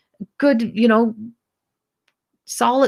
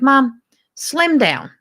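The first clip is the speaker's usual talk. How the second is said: mocking retort; 5 semitones higher, 4 dB louder, much slower than usual. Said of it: "and I said to her".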